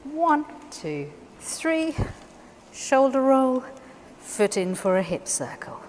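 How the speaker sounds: cueing count with a high three; counting the routine. Shown as a demonstration. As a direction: call the count, three high, shoulder roll lifted. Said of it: "we're gonna say".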